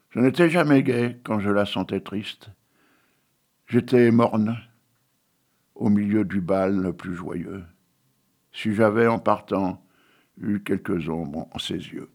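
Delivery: solemn, measured poetry reading; poem recitation. Acted. Reciting Victor Hugo poem.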